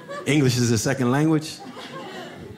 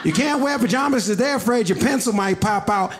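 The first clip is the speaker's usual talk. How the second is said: higher, shouted outburst; losing his mind; 7 semitones higher than usual. Retold or imitated. Cat Boy shouting his answer at the classroom, mock outburst. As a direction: blurt it out at full volume. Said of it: "Cat Boy loses his mind".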